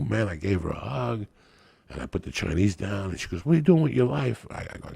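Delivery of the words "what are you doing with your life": eager question. Retold or imitated. He voices her question.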